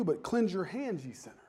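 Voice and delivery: unvoiced whisper of scripture; hushed whispered verse to sinners. Preacher quoting scripture hushed.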